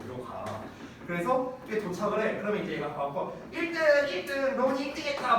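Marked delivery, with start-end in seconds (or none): 3.5-5.4 imitating his young son. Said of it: "막 이래, 얘가".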